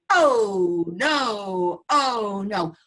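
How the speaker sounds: a grumbling grandmother's mock moan; complaining. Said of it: "were complaining".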